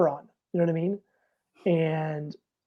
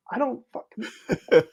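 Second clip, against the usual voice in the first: laughing; 4 semitones higher, slower than usual. Real, not acted. Laughing while retelling.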